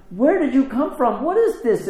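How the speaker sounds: high-pitched acted bewilderment; astonished. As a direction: voice shoots up in imitated amazement. Acted astonished husband in a story.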